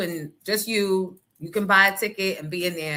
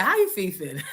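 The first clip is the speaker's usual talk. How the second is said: laughing. Real, not acted. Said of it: "You said".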